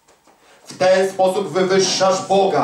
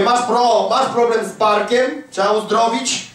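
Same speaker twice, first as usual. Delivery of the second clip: teasing question; 5 semitones higher than usual. Retold or imitated. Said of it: "Mówię".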